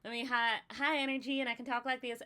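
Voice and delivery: high-energy Southern accent, lightly done. Shown as a demonstration. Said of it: "when I talk in the Southern accent".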